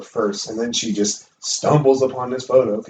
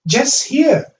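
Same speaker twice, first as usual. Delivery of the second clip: imitating ghost woman; 13 semitones higher, much slower than usual. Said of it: "And she's like".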